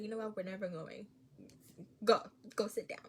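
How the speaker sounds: put-on fed-up parent cutting the kid off; annoyed mom. Mom losing patience with her nagging child, annoyed. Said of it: "I would be very annoyed".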